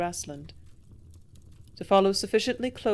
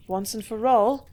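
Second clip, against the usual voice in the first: louder, putting her foot down; firm raised voice; 6 dB louder than usual. A narrator's reading. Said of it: "raising her voice".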